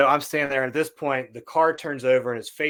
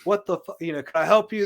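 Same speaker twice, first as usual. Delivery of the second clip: mild mock yell, higher pitched; retold screaming; 5 semitones higher than usual. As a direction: imitate yelling at a stranger, held back. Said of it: "I just start screaming".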